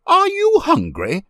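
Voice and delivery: very high, loud lady's question; sudden question. A narrator's reading. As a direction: burst out asking, pitched high.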